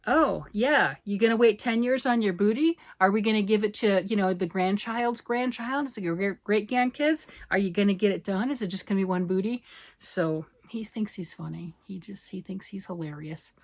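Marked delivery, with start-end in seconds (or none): 0.0-9.6 teasing husband. Retold or imitated. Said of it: "He's like".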